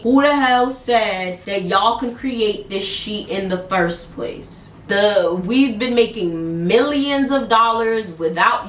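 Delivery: lightly voiced boss, slow and measured; boss's rant, told calmly and slowly; calm version of boss. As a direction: read his rant slow and even. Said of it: "This is the calm way".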